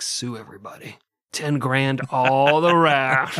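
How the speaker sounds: mock Greg Abbott. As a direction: announce it like a smug governor. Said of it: "Greg Abbott was like".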